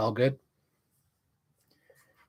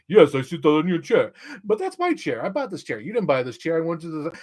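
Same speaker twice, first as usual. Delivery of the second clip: mock movie banter; 4 semitones higher than usual. Acted improvised chair scene.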